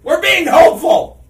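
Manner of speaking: high, loud laughing protest; excited protest. Real, not acted. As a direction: burst out in cheerful protest. Laughing protest at a cohost's jab.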